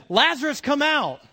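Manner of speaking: high, loud summons; acted yell. Jesus yells to dead Lazarus to come out, loud and high. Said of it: "you just gotta yell louder".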